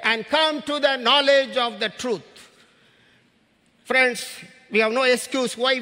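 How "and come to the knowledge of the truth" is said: preacher reading scripture with force; proclaimed scripture. Acted. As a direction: ring the verse out to the congregation. Preacher proclaims a Bible verse.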